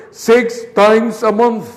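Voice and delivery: "month" stressed at a slow pace; emphasis on month. Shown as a demonstration. Teacher stresses the frequency so students copy it. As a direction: lean on "month" to mark the frequency. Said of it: "Enfaticen eso".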